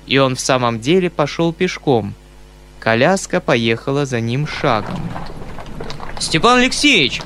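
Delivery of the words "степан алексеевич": high, loud exasperated call; losing patience. Acted. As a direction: call him back, fed up. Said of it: "кричал дядя, выходя наконец из терпения".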